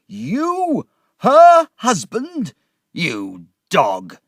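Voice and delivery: high furious shout. A narrator's reading. Drunk father shouts at Uriah, high furious yell. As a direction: explode at him in rage. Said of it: "he shouted".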